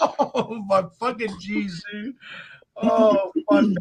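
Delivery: slow words squeezed out through hard laughter. Reacting to a joke among friends, laughing hard while talking. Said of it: "I'm laughing so hard".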